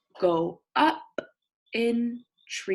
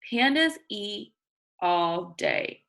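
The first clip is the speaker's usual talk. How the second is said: slow, clear read-aloud; reading to children; slower than usual. Acted. Teacher reading a picture book to her class. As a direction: read each word out for young listeners.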